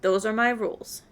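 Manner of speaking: lightly voiced secretive spymaster. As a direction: read it as a mild mysterious informant. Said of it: "the Spy Master's voice".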